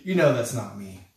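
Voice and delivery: a hint of reassuring teasing; mild buddy-to-buddy reassurance; friendly reminder. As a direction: gently remind old friends. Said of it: "in a way that you might with your friends".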